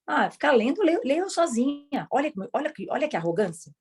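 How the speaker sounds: a touch of an arrogant, bored student; mock grumbling critic. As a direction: sulk at the boring reading. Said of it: "tava ali criticando ainda".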